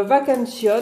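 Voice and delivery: Vacancion said with a light Spanish accent, rolling it out; a mock Spanish accent on Vacancion. Shown as a demonstration. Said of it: "avec l'accent, euh, espagnol".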